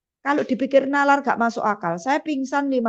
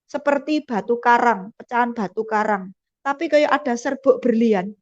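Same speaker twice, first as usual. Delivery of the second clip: normal talking voice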